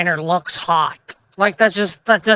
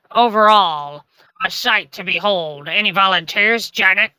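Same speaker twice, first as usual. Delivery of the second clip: lightly voiced pirate captain, hardly changed from own voice; a half-hearted pirate growl, barely put on. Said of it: "I'll try to do my best pirate voice".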